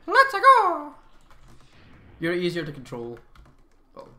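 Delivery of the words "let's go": high, loud eager cheer; excited shout. Real, not acted. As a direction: yell to hurry them up. Urging unit on.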